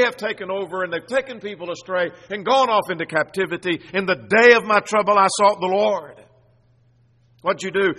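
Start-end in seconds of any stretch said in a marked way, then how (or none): 3.9-6.2 loud, emphatic scripture quote; crying out. Acted. Preacher quoting the psalmist in his trouble, crying out. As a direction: declaim it forcefully, slowing toward the end.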